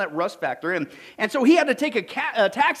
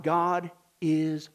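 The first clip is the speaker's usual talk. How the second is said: much softer and lower, almost breathed; hushed, awed, much softer; hushed reverence; 6 semitones lower, 5 dB quieter, much slower than usual. Real, not acted. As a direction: say it in awe, barely above a hush. Reverent pronouncement.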